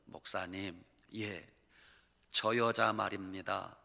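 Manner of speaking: low, hushed husband's words; quiet mimicked husband. Husband tells the pastor quietly. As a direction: murmur the husband's complaint lowly.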